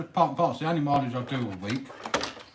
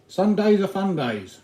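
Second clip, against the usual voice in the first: excited; 7 semitones higher, 6 dB louder, slower than usual. Real, not acted. Upbeat catchphrase to chat.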